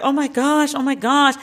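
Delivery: high, giddy repeated gush; excited gasp. Retold or imitated. Everyone reacting to Obama's three-pointer, excited. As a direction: crowd losing it over a swish. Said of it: "Everyone was like".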